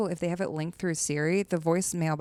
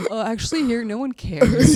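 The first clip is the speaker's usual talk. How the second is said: laughing; 6 semitones higher, 8 dB louder than usual. Retold or imitated. Mocking indifferent audience, laughing.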